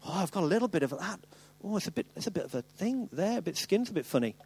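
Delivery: quick, mumbled self-check; hint of a hypochondriac. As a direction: fret lightly over a rash. Imitating a symptom-checker.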